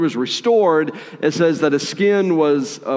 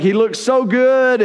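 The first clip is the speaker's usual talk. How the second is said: gushing, higher starstruck voice; excited; 8 semitones higher than usual. Acted. Servant admires the visiting commander, excited. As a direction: gush like a thrilled fan. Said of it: "he's excited".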